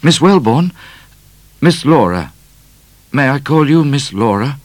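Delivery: put-on a bashful young man trying; hint of a nervous suitor; shy suitor. A narrator's reading. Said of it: "Cat whispered to Midnight".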